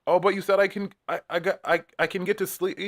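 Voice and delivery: high, whiny, pleading mock voice; high pleading imitation of a housemate; quoting a singer. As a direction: squeak it out like a sleepy man begging. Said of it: "he said something like".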